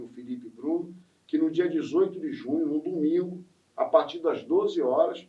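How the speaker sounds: measured promotional invitation; event announcement. Real, not acted. Host inviting listeners to the samba school's feijoada, announcer style. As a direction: announce the feast to everyone listening.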